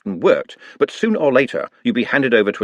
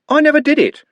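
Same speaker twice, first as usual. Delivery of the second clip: high loud cry, stress on never; desperate denial; 5 dB louder than usual. A narrator's reading. Trev protesting to Constable Haddock, high and desperate. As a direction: plead innocence in panic.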